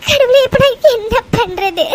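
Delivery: a broken, tearful plea to God; despairing sob. Acted. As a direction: sob out the helpless question. Despairing woman calls on God.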